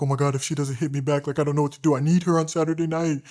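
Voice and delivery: mock a clingy, desperate texter; desperate guy. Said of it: "you're giving out that energy".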